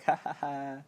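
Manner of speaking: imitated clown chuckle; mock happy laugh. Reviewer retelling the clown's first appearance, mock laugh. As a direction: lightly fake a happy "ha ha ha". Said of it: "at first he's kinda happy".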